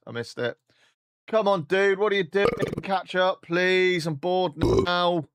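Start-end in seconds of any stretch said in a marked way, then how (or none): 1.3-5.3 much higher, louder whiny nagging; high whiny impatience. Acted. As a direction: whine at him to hurry. Impatient nagging at slow companion.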